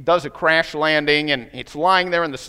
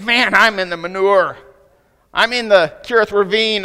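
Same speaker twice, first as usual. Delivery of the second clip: a louder, higher mock lament; complaining listener; 5 semitones higher, 7 dB louder than usual. Churchgoer complaining about being broken, louder and higher. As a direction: voice a churchgoer griping about hard times. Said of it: "Some of you right now are saying".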